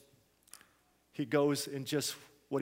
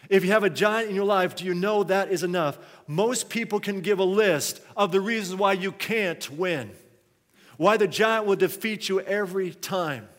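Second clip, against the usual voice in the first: emphatic, raised-voice pulpit challenge; forceful preaching; 4 semitones higher, 6 dB louder than usual. Real, not acted. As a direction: press the congregation hard with the point.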